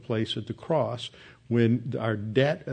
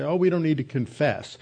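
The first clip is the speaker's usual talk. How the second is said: "confess" pushed up and leaned on, mildly imitating; mock the people who hit "confess"; stress on confess; 3 semitones higher, faster than usual. Preacher quoting people, leaning on "confess" in a mild imitation. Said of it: "they emphasize the word confess".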